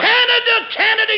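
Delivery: shouting the place name with glee; excited shout. Acted. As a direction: blurt it out as it dawns on you. Sudden excited realization, shouting.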